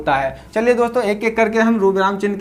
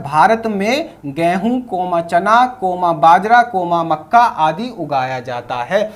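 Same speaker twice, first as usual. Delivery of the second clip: slow example reading with commas; slower than usual. Shown as a demonstration. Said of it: "example से दिखा देता हूं".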